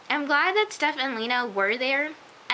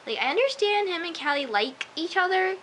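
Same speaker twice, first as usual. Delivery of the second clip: raised pitch, stressing the verb "like"; 8 semitones higher than usual. Real, not acted. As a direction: lean on "like" in "like each other". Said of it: "emphasis on the liking".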